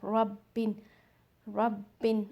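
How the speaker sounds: रब्बिन with the ब held double; रब्बिन with shadda on b; doubled b. Shown as a demonstration. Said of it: "बा को हम two times पढ़ रहे हैं".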